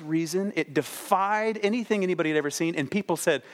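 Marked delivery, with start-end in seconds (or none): none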